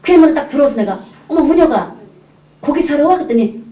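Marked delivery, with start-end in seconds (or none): 1.3-3.2 higher-pitched, chatty neighbour greeting; surprised greeting. Retold or imitated. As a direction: act out bumping into a neighbour. (반갑게 놀라며 건네는 인사)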